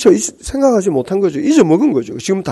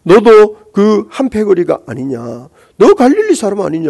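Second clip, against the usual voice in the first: put-on accusing servant girl; 6 semitones higher, 4 dB louder than usual. Maid accusing Peter.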